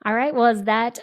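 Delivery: a badly faked creepy Halloween voice.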